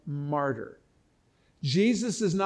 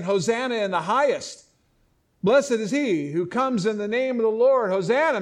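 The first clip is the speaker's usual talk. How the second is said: mildly raised, cheering crowd's acclaim; 4 semitones higher, 5 dB louder than usual. Retold or imitated. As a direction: echo the crowd's hosanna with light excitement. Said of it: "now the crowd's cheering".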